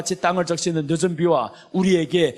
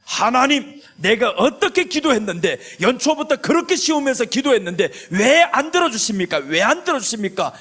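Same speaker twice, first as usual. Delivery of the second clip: raised, whiny plea to God; complaining prayer; 5 semitones higher than usual. Pretend. Believer protesting to God over an unanswered prayer, whiny and raised.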